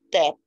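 "debt" said "det", no b at all; silent b. Shown as a demonstration. Teacher shows "debt" with a silent b. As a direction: drop the b in "debt". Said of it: "o B é mudo".

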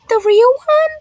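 put-on high, loud disbelieving child; amazed question. Pupil to teacher about the famous chef, amazed.

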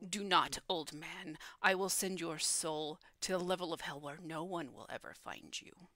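lightly voiced devil, sinking at the end; a measured threat dropping away into softness; threatening pit fiend. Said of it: "The pit fiend will point towards Moritz and say".

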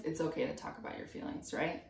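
fast whisper of the line again; whispered aside. Acted. Teacher reassuring kids, a quick whisper. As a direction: murmur it softly to the kids.

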